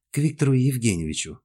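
meek parroting; obedient echo. A narrator's reading. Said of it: "послушно повторила Дайнека".

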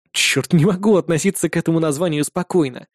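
ordinary delivery, nothing marked

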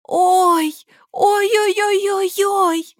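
очень высоко, медленно, старушечьи охи; причитай в ужасе; причитания. A narrator's reading. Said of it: "причитала свекровь". (свекровь причитает над внуком, очень высоко)

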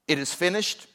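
lifted, triumphant "finished", held back; cry of victory. Retold or imitated. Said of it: "a cry of victory".

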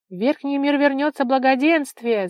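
loud, high proclamation of joy; joyful crowd shout. A narrator's reading. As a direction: call it out to the whole crowd. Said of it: "закричали небожители".

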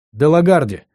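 trembling voice. Acted. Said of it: "голос у парня дрожал".

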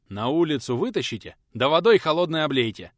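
loud, commanding host shouting to his men; barked order. Acted. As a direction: order them out loudly, no patience. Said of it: "приказал хозяин дома".

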